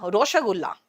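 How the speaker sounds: put-on Bengali accent, rounded o in रोशगुल्ला. Teacher mimics a Bengali speaker, Bengali accent. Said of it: "ओ को इतना घुमाते हैं".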